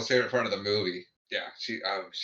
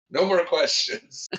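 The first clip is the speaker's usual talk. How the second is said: slow, higher mock reprimand; scolding; 5 semitones higher, slower than usual. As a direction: draw it out like a telling-off. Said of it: "almost in a scolding manner".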